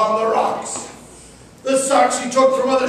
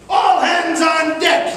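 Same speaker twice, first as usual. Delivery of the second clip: pirate captain's order; 4 semitones higher, slower than usual. Acted. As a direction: bellow it to the crew. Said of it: "he'd order".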